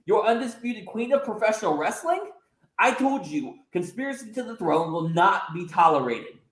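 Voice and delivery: high indignant scolding, hammed-up; outraged heel queen. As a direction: put the upstart in her place.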